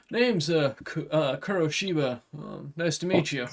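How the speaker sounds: a blunt samurai making a deal; dragonkin warrior. Acted. GM voices Kuroshiba.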